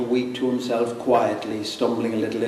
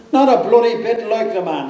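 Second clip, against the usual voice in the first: put-on higher, loud drunken indignation; 9 semitones higher, 4 dB louder than usual. Caretaker retelling the drunk at the grave, higher drunk voice. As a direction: play the drunk squinting at the statue, higher. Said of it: "says he".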